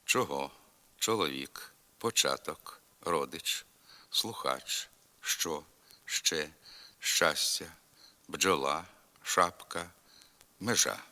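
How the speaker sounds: hard ч in початок and hard ж in межа; hard hushing consonants. Shown as a demonstration. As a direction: say ч, дж, ш, ж hard, unpalatalized, in чоловік, бджола, шапка. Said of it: "вимовляються твердо".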